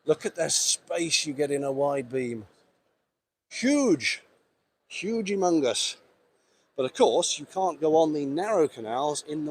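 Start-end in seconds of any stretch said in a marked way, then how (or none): 3.5-6.0 impressed. Real, not acted. Marvelling at the wide beam's space.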